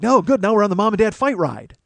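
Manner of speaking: put-on high, loud, gleeful kid; chirpy five-year-old, pitched right up; excited little brother. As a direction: imitate a small boy thrilled by the ride. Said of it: "my little brother is like".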